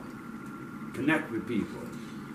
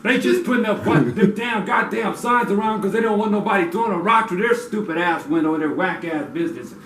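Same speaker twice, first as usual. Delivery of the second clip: laughing rant; 5 semitones higher, 5 dB louder than usual. Real, not acted.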